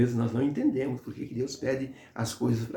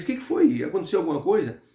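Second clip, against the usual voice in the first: concerned; 4 semitones higher than usual. Retold or imitated. Girl sees guard start crying.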